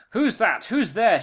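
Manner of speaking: loud, high suspicious crone; old witch voice. Acted. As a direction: call out like a startled old witch.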